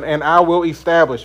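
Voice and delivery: I weighted and falling; stress on I. Shown as a demonstration. Teacher listing God's promises, I pressed. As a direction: lean on I, God as the doer. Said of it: "how many times God says".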